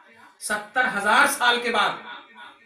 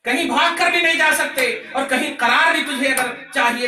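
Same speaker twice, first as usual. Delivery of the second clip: raised, insistent sermon voice; preaching at full force; 4 semitones higher, 5 dB louder than usual. Real, not acted. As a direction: preach it out to the crowd. (ज़ोरदार तक़रीर)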